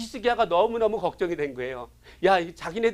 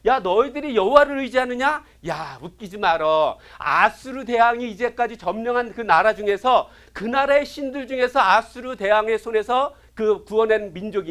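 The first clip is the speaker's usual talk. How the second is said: mocking taunt; 3 dB louder than usual. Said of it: "군대 장관들이 조롱을 합니다".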